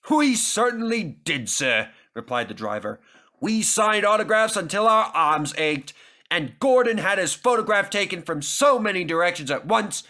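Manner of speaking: lightly voiced jolly driver; proud engine driver. A narrator's reading. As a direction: boast happily to the boss.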